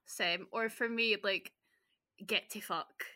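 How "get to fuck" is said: Scottish phrase. Shown as a demonstration. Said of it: "That's very Scottish".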